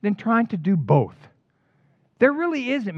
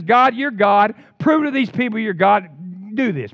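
louder, commanding plea to heaven; calling on God; 5 dB louder than usual. Retold or imitated. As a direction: cry out to God to prove himself.

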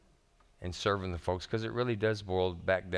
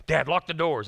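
higher, louder imitation of an anxious child; imitating scared daughter; 6 semitones higher, 6 dB louder than usual. Pastor retelling his daughter's fear in the car, higher louder child's plea. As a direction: play the frightened little girl.

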